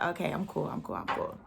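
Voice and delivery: soft whisper fading out; whispered self-calming. Retold or imitated. Telling herself she's fine, whispered. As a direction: breathe it out to cool down.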